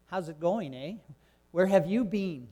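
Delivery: lightly put-on Toronto accent. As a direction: imitate a casual Toronto greeting with the local accent. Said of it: "like a Toronto accent".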